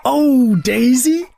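high, slow gushing; adoring praise. Acted. Chickens now praise Daisy, delighted. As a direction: gush over her. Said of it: "They said".

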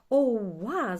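loud, pleased whoop; delighted cry. A narrator's reading. Чорник thrilled by riding a water strider, delighted cry. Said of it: "задоволено кричав чорник".

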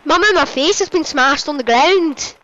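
quick imitation of a bad Scottish accent; mock Scottish accent. Teasing the other player about their accent, mock Scottish. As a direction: mimic a dodgy Scottish accent. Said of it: "do a Scottish accent? Scottish accent, like".

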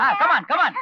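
laughing through the words. Real, not acted. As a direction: chuckle as you speak. Laughing reply. (சிரித்துக்கொண்டே பேசுதல்)

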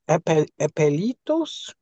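"apelitos" sounded out slowly, with an l and a t; tentative pronunciation. Real, not acted. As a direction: try "apelitos" haltingly, drawn out and rising as if asking. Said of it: "I think that's how you pronounce it".

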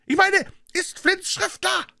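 high, slow impatient shout; cursing demand. A narrator's reading. Blind man to man upstairs, angry demand. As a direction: hammer out the question angrily. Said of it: "fluchte der Blinde".

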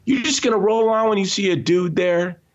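high, indignant demand; outraged at the driver who wouldn't stop; angry retort. Retold or imitated. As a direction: confront the shuttle driver, outraged. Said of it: "I go".

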